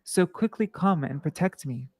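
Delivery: measured devotional read-aloud; scripture reading. A narrator's reading. Reader recites Radha's pleas to Krishna for listeners, measured scripture reading. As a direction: read the sacred dialogue out with steady, even phrasing.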